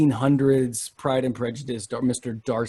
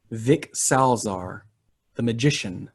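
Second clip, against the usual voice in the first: usual speaking voice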